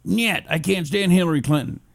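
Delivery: hammed-up Russian accent; bad Putin impression. Host as Putin refusing Hillary, mock Russian accent. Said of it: "horrible impression was".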